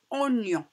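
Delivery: "oignon" split slowly as o-gnon; drawn-out model word. Shown as a demonstration. Teacher linking the syllable to its word, "oignon" stretched by syllable. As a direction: sound out "oignon" in two parts. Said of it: "comme le mot".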